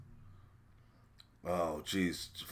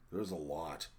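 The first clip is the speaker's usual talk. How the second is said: ordinary talk, nothing marked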